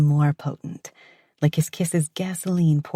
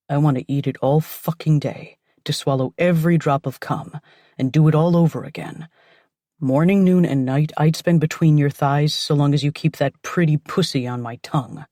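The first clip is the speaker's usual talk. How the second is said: louder, urgent man's voice; heated male voice; 6 dB louder than usual. Acted. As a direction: push it out hungrily as the man. Lover's heated declaration.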